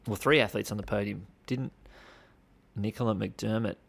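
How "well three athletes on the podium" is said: three leaned on, correcting two; stress on three. Shown as a demonstration. Correcting the news outlets, stress on three. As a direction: hit three, not two. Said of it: "two athletes on the podium".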